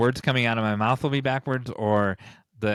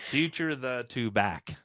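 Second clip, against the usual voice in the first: backwards speech; 4 semitones higher, 3 dB quieter, slower than usual. Shown as a demonstration. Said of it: "give me the answer backwards".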